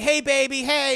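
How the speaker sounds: high, bright mock wife greeting; mock wife calling out hey baby. Recapping scene, wife voiced high.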